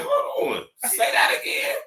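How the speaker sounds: very high squeaky outburst; acted squeal of amazement; excited interruption. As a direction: cut in with a cracking high pitch. Acts out his excited reaction.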